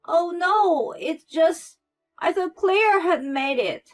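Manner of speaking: high, loud, flustered excuse; panicked backpedal. A narrator's reading. Mother-in-law makes excuses to Zara, panicked. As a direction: talk fast to cover.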